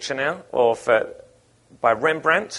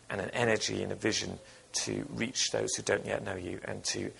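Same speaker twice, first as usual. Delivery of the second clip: real congregational prayer, growing quieter toward the amen; leading prayer; 3 dB quieter than usual. Real, not acted.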